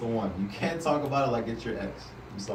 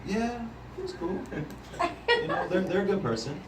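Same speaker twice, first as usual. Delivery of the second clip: deflated monotone about an ex; dull, flat voice, softer than usual; 3 semitones higher, 4 dB quieter than usual. Retold or imitated. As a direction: say it flat, like you couldn't care less about your ex. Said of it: "It's very flat, very monotone".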